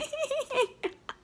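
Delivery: squeaky teary giggle; real high breathy laugh; high embarrassed laugh. Real, not acted. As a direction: laugh at yourself through tears. Laughing at her own crying.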